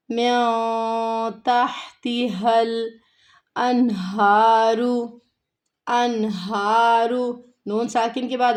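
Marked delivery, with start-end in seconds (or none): 0.1-7.1 slow, drawn-out melodic tajweed recitation; Quran recitation. Shown as a demonstration. Teacher recites the verse for her students, slow and melodic. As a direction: chant each word long and held.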